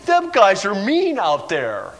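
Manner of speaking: slow, drawn-out mock whine; mock complaining player. Running back tattles to the coach, mock whining. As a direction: imitate a sulking football player. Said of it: "running back comes to the sideline".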